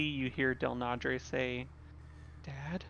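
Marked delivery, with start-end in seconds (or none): 2.4-2.8 a soft, hushed single word; very softly. Acted. Player voicing Del Nadre calling to the mummy, very soft. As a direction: barely breathe it, much softer. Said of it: "Very softly".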